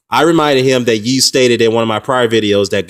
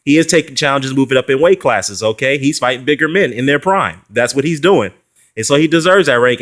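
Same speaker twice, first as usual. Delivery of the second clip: emphatic retold reply; 3 semitones higher than usual. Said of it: "and I said".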